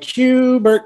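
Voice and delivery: high sing-song call across the house; calling the cat. Retold or imitated. Owner calling his cat from floors away, high sing-song call.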